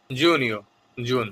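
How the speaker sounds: জুনিও drawn out slowly, every syllable clear; slow careful repeat. Shown as a demonstration. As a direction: spell out জুনিও very slowly for learners. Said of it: "খেয়াল করে শুনবেন এবং বারবার অনুশীলন করবেন".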